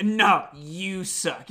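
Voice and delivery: slow mock comeback, stretched out; Johnny. Wrestler answering an audience heckler, slow mock retort. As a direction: throw the heckle back, drawn out. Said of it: "Johnny would be like".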